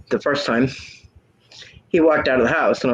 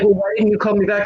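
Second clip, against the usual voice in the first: put-on whiny boyfriend; 7 semitones higher than usual. Boyfriend whining on the phone.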